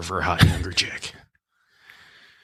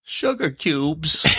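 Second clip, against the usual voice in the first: very slow, higher mock actor voice; Christopher Walken; 7 semitones higher, much slower than usual. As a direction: stretch each word out, pitched up. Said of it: "sound like Christopher Walken".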